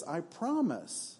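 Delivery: a quiet, slow snake vow; sly promise. Acted. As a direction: drawl it out to win him over. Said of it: "And the snake says".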